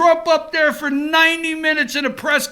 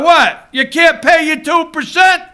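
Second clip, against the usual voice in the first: imitating Trump; 2 semitones higher than usual. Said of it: "Donald said to Trudeau".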